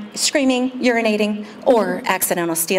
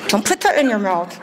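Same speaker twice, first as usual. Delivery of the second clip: high, building into a shrill yell; rising scold; 5 semitones higher than usual. Retold or imitated. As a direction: scold louder and louder at the kids. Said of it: "my voice is getting louder".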